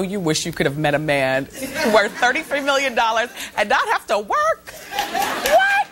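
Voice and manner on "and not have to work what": high, quick gossipy chatter; excited gossip. Real, not acted. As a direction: gush about it breathlessly.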